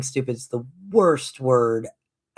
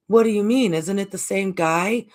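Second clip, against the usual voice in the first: put-on surprised kid; 5 semitones higher than usual. Kids stunned by the story, high and surprised. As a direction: react like an amazed child.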